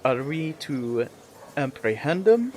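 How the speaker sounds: softly voiced secret planning; hushed whispering. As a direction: ask it under your breath. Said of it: "whispering this".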